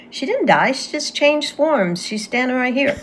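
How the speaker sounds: a hint of a calm certain little girl; matter-of-fact child. Girl telling her grieving father, lightly childlike and calm. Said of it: "And I went".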